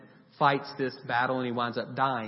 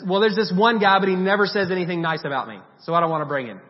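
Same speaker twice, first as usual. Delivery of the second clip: whiny king; 4 semitones higher, 8 dB louder, faster than usual. Retold or imitated. Whining king in retold story.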